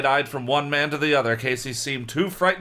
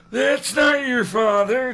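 slow, higher mock cry; 10 semitones higher, slower than usual. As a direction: call out a warning. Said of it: "cried again".

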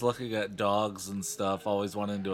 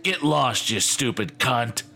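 harsh raspy snarl; slower than usual. Acted. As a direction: spit it out like a nasty puppet. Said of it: "he snarled in a harsh, raspy voice".

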